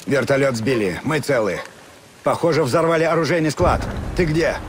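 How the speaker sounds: loud urgent report over battle noise; shouting over gunfire. Acted.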